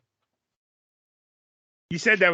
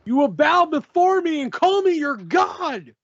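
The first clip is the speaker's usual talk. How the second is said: slow, booming god-like villain proclamation; megalomaniac rant; 8 semitones higher, 4 dB louder, slower than usual. Acted. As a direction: declare it like a dark wrestling villain. Giving a villain-style hint.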